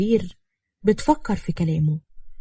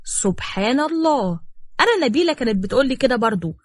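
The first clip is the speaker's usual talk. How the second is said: mock shock; 4 semitones higher than usual. The speaker mocking Sami with feigned shock. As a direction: put on surprise to mock them. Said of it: "بصدمة مصطنعة".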